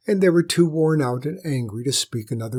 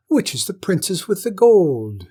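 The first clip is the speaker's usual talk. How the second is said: higher and louder insistent question; demanding; 7 semitones higher, 7 dB louder than usual. Acted. Lady demanding the jester name the gold princess. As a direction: press the jester hard.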